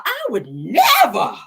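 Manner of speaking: slow, whiny fake sob; hammed-up tearful denial; mocking the runner's crying. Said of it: "Says that".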